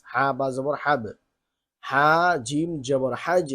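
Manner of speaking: slow, deliberate reading of each syllable; drill recitation. Shown as a demonstration. Teacher showing students how letters join, slow recitation. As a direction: spell it out slowly for the class.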